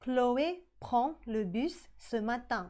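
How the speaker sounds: Chloé prend le bus ce matin, very slow and clear; slow model sentence. Shown as a demonstration. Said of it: "ออกเสียงเหมือนกันคือ prends". (อ่าน Chloé prend le bus ce matin ช้าๆ)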